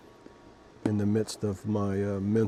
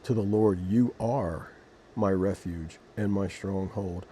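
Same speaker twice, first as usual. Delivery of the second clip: scripture reading. Acted. Vlogger reading Psalm 91 to viewers, measured scripture reading. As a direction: read it like a prayer from the Bible.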